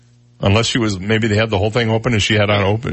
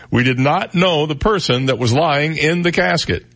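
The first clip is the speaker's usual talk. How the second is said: lightly raised pitch, emphatic quote reading; hint of Bill Cosby; 4 semitones higher than usual. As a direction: read the quote emphatically, only faintly like an impression. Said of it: "I sound like I'm doing Bill Cosby".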